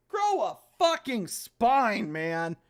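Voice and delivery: slow, contemptuous jab; scornful. Real, not acted. Player scorning his own character's whining. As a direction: drag it out with disgust.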